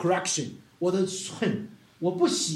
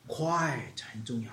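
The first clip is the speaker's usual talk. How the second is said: soft quiet; 7 semitones lower, 8 dB quieter, slower than usual. Shown as a demonstration. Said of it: "slow soft emphasis on quiet".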